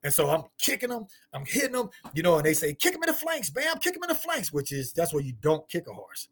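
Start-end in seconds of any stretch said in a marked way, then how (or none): 2.7-4.5 retold cowboys calling.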